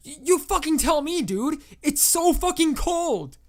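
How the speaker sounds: high, loud hysterical dude; panicked yelling. A narrator's reading. Young caller on LSD answers the operator about his finger, hysterical panic. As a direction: shriek it, drawing out the last words.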